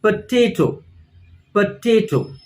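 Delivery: Potato with TA stressed, po light; teacher demonstrates second-syllable stress in potato. Shown as a demonstration. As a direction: say Potato as po-TA-to, falling. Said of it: "the stress is on the second syllable".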